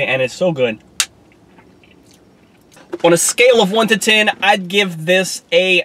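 talking while taking a bite; words around food; spoon in mouth. Real, not acted. Seen 0: holds spoon of dessert throughout, spoon enters mouth at 3.8.

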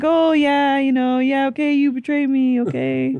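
lightly imitating a fake-nice contestant; a hint of a gushing reality star; mock contestant voice. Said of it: "'Cause it's gonna be like".

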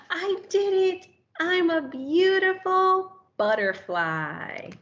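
high, loud, crying with joy; overjoyed, voice breaking; tearful joy. Acted. New butterfly admiring itself, tearful with joy.

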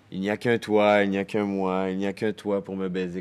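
impassioned declaration. Acted. Impassioned declaration to lover in monologue.

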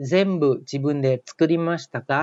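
very slow, word-by-word model reading of 全部自分で作りましたか; slow reading aloud. Shown as a demonstration. Teacher models the quiz sentence for students, slow and deliberate. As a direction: read 全部自分で作りましたか slowly, each word drawn out clearly. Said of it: "เจอโน้ตเห็นไหมครับ".

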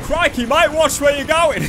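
loud, high, hammed-up Australian; bad Australian accent. Shown as a demonstration. Yelling at another driver, exaggerated mock Australian accent. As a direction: put on a terrible Australian accent. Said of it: "probably worse than the actual Australian accent".

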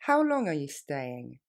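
brisk natural speed. Shown as a demonstration. Teacher modelling for students, quick natural. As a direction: say it quickly, like a native. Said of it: "Plus rapidement".

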